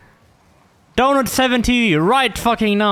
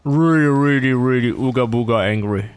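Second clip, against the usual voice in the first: lower, hammed-up grumpy rant; mock caveman anger; 7 semitones lower than usual. Teasing teammate Jay for not downloading, mock caveman anger. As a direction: playact being furious, half-joking. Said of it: "I'm really angry".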